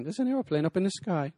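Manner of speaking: imitated British kid's singsong line; British child. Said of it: "I hear a kid talking that way".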